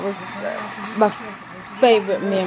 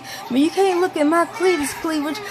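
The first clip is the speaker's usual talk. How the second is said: mock yell, corrected; 8 semitones higher than usual. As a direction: correct yourself and land on "cleavage". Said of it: "sitting here screaming".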